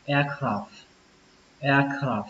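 "Aircraft" ending on a puffed F, no clear T; "aircraft" finishing in a soft F. Shown as a demonstration. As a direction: let out a quick F to close "aircraft". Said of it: "các bạn phờ nó ra một cái".

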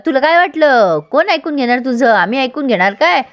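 lightly acted comeback in a quarrel; defiant retort. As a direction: throw the questions back, mock-offended.

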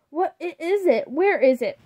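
out of breath, panicked father. A narrator's reading. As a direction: gasp out the question in alarm. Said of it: "The total panic".

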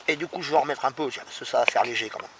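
talking with mouth full. Real, not acted. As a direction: speak through a mouthful of food. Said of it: "je parle en mangeant".

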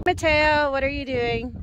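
loud call across the rocks. Real, not acted. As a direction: call his name out loud. Calling out to son.

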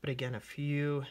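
breath held, words squeezed out; holding breath. Real, not acted. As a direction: talk while holding your breath. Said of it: "you can hear me, I'm holding my breath".

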